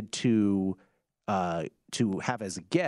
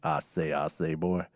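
lightly voiced Southern drawl; a hint of a Southern gentleman accent; Foghorn Leghorn; 7 semitones lower than usual. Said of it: "your Southern gentleman accent".

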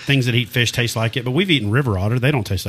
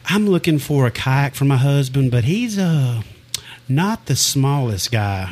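halting, slowing to a careful finish; imitated hesitant wife; 3 semitones higher, slower than usual. Wife shops for her big husband, imitated hesitant delivery. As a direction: tiptoe tactfully toward the point.

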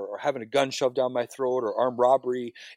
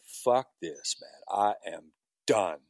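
despairing inner voice; 2 semitones lower than usual. Retold or imitated. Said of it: "Something inside me just said".

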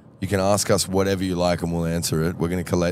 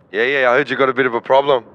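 quick, higher tradie caricature; Michael's voice; 5 semitones higher, 5 dB louder, faster than usual. Retold or imitated. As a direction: rattle it off like a laid-back tradie. Impersonating Michael.

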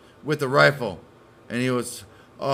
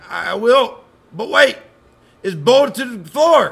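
higher, louder, slow nervous driver; a scared driver stalling; panicky driver; 10 semitones higher, 9 dB louder, slower than usual. Retold or imitated.

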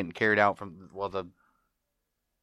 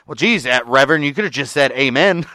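mildly louder, sarcastic retold complaint; exasperated spew; 4 semitones higher, 5 dB louder than usual. Retelling Al's spew at the Reverend, exasperated. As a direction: grumble it as an imitated rant. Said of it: "Al goes on this spew".

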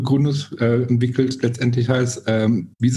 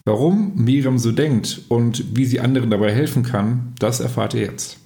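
measured, presenter-style episode introduction; podcast intro. Real, not acted. Host introduces guest Miriam to podcast listeners, podcast intro.

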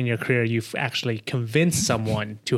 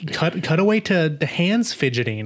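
higher-pitched mock frustration; exasperated urging; 5 semitones higher than usual. Editor telling the movie where to cut, mock exasperated. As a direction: urge the film on, playfully fed up.

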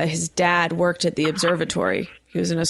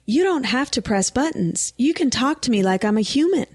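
lightly voiced phone-tree robot lady, higher; a hint of chirpy automated operator; imitated automated voice; 5 semitones higher than usual. Host mimicking the phone tree's operator, higher automated voice. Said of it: "the automated voice, she goes".

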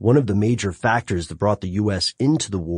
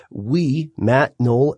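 usual speaking voice

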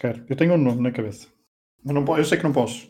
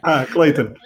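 laughing; 4 dB louder, much slower than usual. Real, not acted. Laughs at getting it right.

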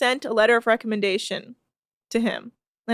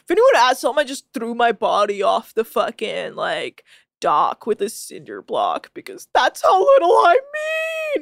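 hammed-up melodramatic wail, louder; mock dramatic self-pity; 3 dB louder than usual. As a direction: overact a sulky pity party. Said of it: "He's so lame".

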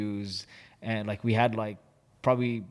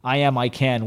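coach yelling; 4 dB louder, slower than usual. Retold or imitated. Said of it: "she yells out".

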